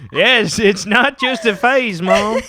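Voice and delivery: a light put-on British accent, slowed; lightly acted teen defiance in a British accent; teen telling Mom he is British, in a British accent. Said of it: "you're doing really well at the accent".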